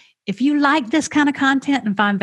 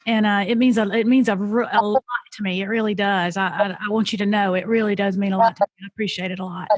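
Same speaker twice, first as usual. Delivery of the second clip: fighting back tears, words breaking off; choked up. Real, not acted. Host thanking the guests, choking up with real emotion. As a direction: voice catching as she thanks them. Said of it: "I'm sorry for getting so emotional".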